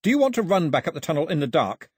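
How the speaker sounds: mildly shouted warning across a distance; restrained shout. A narrator's reading. Mao warning Daphne about the dark, understated shout. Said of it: "he shouted as loudly as he could".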